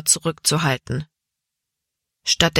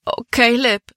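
higher-pitched, plaintive wail; 6 semitones higher than usual. A narrator's reading. Libby turning to Caleb in despair, wailing. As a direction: lament helplessly, voice lifted. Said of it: "jammerte Libby".

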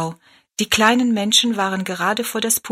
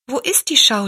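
put-on little girl voice; 5 semitones higher, 4 dB louder than usual. Rosalie asks Tobi.

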